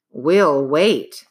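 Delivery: decisive. Acted. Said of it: "said Praiseworthy with decision".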